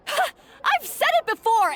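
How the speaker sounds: laughs it off high and slow, mocking; a dismissive laugh that brushes the complaint aside; scoffing laugh. Head chef scoffs at the claim her cook was overworked, mocking laugh.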